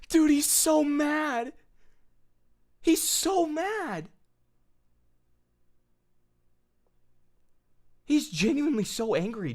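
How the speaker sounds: very high, wheezy laughing squeal; real helpless laughter. Real, not acted. Streamer cracking up at how mad his critic is, laughing. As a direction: squeal it slowly through laughter.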